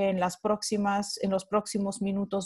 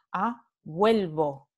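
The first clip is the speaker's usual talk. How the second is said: vuelvo slowed, with "vuel" stressed; slow stress demo; 2 semitones lower, slower than usual. Shown as a demonstration. Teacher modelling the stem change slowly for students. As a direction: stretch out vuelvo and lean on "vuel". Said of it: "el diptongo forma parte de una sílaba tónica".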